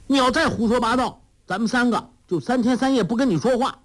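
high, fast scolding threat; Huang Rong shouting. A narrator's reading. 黄蓉喝止老顽童胡说，高声快语威胁. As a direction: snap at him to shut up. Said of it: "黄蓉喝道".

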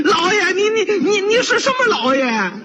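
wailing complaint, pitched high with sobs; crying protest. Acted. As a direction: pot seller jumping up sobbing at the magistrate. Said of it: "卖砂锅的蹦起来了".

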